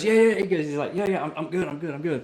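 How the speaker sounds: high, loud laughing yeah yeah; laughing reassurance. Retold or imitated. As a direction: laugh it off breathlessly.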